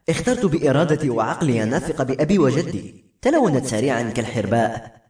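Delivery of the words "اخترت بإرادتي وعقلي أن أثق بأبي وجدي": usual speaking voice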